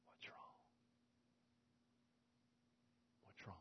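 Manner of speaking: "What's wrong?" breathed in a soft whisper. Shown as a demonstration. Preacher showing how God asked Elijah, a soft whisper. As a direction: whisper it gently, the way the Lord did. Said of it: "The Lord whispered it".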